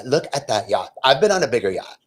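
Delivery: lightly affected skit voice; mock neighbor talk. Neighbor bragging to friend about yachts, mockingly affected. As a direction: imitate a boastful yacht gossip. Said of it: "Literally, this is the conversation".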